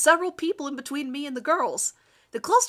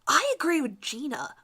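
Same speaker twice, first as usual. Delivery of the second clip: sneers; 5 semitones higher than usual. Acted. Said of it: "a girl in pink sneers".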